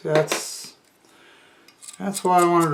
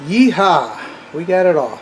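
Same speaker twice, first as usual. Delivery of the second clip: loud yeehaw, higher, real celebration; triumphant whoop; 4 semitones higher, 9 dB louder than usual. Real, not acted. Repairman whooping to the camera as the part pops off, triumphant. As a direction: cheer it out like a rodeo win.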